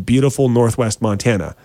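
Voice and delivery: beautiful given deliberate emphasis; stress on BEAUTIFUL. Real, not acted. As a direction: lean on the word beautiful. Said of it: "I put emphasis on the word beautiful".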